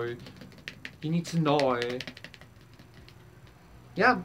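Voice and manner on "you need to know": slow emphasis. Real, not acted.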